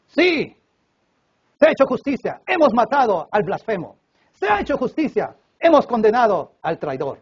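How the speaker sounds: judges' verdict. Acted. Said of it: "los representantes de Poncio Pilatos".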